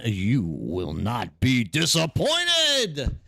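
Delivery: slow, drawn-out promo voice; lightly hammed-up pitch to new members; a hint of a movie-trailer voice; mock announcer. Promoting the community.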